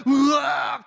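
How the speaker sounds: long, high storybook scream; hammed-up agonised yell; loud acted death cry. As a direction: cry out in mock agony for the kids. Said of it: "뭐 이렇게 읽어준단 말이에요".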